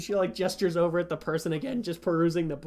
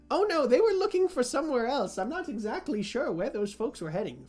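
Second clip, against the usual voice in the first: feigned innocence; 6 semitones higher than usual. Acted. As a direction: play innocent, then tut disapprovingly. Shopkeeper feigns ignorance to other patron.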